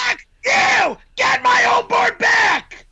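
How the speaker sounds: furious shout. Acted. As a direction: bellow the demand in rage. Furious quarrel over snowboard.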